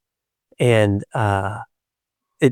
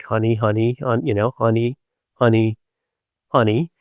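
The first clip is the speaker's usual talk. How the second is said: comforting honey; 2 semitones lower than usual. Retold or imitated. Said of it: "does the, like".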